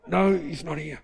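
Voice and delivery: mock holding back a laugh; imitated stifled laughter. Wife answering the door to visitor, imitated suppressed laughter. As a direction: answer as if fighting down giggles. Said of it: "trying to hold his laughter back".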